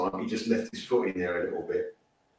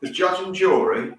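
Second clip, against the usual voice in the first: high, louder sarcastic challenge; mock indignation; 9 semitones higher, 4 dB louder than usual. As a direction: scoff at him as if to his face. Mocking Richarlison's behaviour on pitch.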